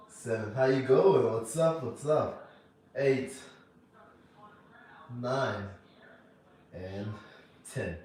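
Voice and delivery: loud, strained mid-rep; doing sit-ups. Real, not acted. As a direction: push the words out mid-crunch. Counting reps mid crunch workout.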